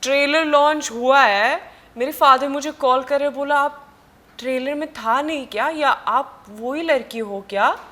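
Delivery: fast, high, eager retelling of the call; excited retelling. Retold or imitated. Actress excitedly tells interviewer how her father called. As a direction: rush through the story, voice up high.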